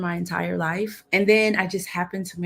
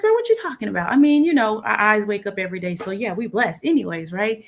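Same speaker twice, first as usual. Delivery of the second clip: playful brush-off; 2 semitones higher, 4 dB louder, faster than usual. Retold or imitated. Retold reply to her girlfriend.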